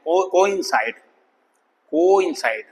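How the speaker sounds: कोइंसाइड with "ko" and "in" apart; careful कोइंसाइड, two distinct vowels; split vowel sound. Shown as a demonstration. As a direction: separate the o from the i in कोइंसाइड. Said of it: "अलग अलग sound है".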